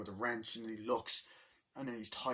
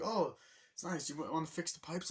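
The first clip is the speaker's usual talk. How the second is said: cheery character voice; 7 semitones higher than usual. Retold or imitated. Character voiced in movie retelling.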